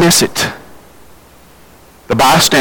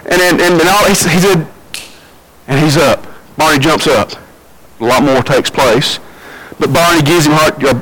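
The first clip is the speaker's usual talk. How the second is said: normal talking voice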